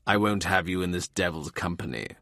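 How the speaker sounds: put-on low, cold old man refusing; a hint of a stern father shutting him out. More refuses the visitor.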